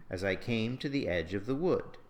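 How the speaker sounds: verse lilt, light "as I", landing on "came"; every third syllable stressed. Shown as a demonstration. Teacher reads another example, stressing "came", "edge" and "wood". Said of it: "same pattern of unstressed, unstressed, stressed".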